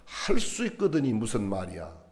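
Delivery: "할 수 있거든이 무슨 말이야" said slowly and softly, each word laid down calmly; slow, gentle reading. Shown as a demonstration. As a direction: read it slow and soft, as a puzzled, gentle question. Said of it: "이렇게 새겨보세요". ("할 수 있거든이 무슨 말이야"를 천천히 부드럽게)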